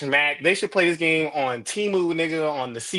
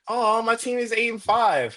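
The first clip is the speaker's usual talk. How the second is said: mock whiny fan; 6 semitones higher than usual. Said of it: "Hey, buddy, let me tell you about misery".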